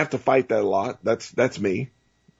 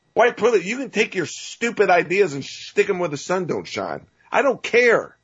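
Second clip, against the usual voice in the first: heated, higher-pitched rant at critics; getting angry; 5 semitones higher than usual. Real, not acted. Host ranting at his critics, getting angry. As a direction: let real anger rise into a raised voice. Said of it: "I'm getting angry".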